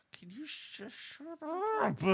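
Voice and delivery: high, mock snapped shut up; a hammed-up exasperated retort. Telling the nosy mom to stop, high mock snap. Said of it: "And I'm like".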